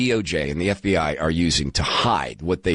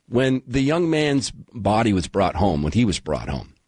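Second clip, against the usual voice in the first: emotional; 2 semitones lower than usual. Real, not acted. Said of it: "sorry, these things make me emotional".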